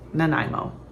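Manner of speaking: "Nanaimo" as nuh-NYE-mo with a falling end; pronunciation demo. Shown as a demonstration. Vlogger naming the city it comes from, nuh-NYE-mo for "Nanaimo". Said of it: "that is how you pronounce it".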